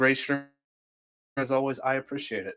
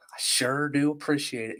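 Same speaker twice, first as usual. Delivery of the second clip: put-on Southern accent try; 2 semitones higher, 4 dB quieter than usual. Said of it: "It's still terrible".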